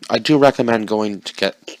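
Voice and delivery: talking with a mouthful of food; mouth full. Real, not acted. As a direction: say it through a mouthful. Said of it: "with a mouthful of food".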